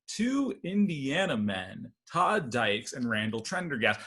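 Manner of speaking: slow, deliberate headline read; newspaper headline read. Retold or imitated. Comedian reading the paper's headline aloud, slowly. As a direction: announce it like a news headline. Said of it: "It says".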